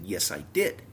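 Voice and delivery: retold firm, irritated comeback; growing irritation. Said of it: "And I'm getting mad".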